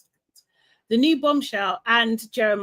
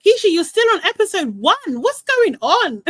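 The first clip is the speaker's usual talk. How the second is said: mock scolding call; 8 semitones higher, 6 dB louder than usual. Real, not acted. Calling out a viewer.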